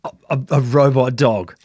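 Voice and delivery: stunned stammering disbelief; surprised. Real, not acted. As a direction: caught off guard, repeating it. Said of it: "I was not gonna guess that".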